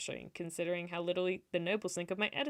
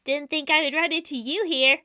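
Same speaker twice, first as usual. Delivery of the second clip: loud, higher challenge; confronting swordsman; 8 semitones higher, 13 dB louder than usual. Acted. Noah surprising saintess by the pond, loud challenge. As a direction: call it out, raised and pointed.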